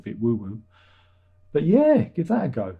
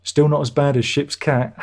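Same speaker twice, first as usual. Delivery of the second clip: mock teasing; 3 semitones higher, 5 dB louder than usual. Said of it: "she go".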